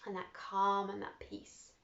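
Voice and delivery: hushed meditation voice; soft meditation close. Acted. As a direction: settle them into stillness. Closing meditation.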